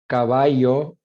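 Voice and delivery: caballo with a y sound; drawn-out caballo, y for ll; Mexican pronunciation. Shown as a demonstration. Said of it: "digamos, México".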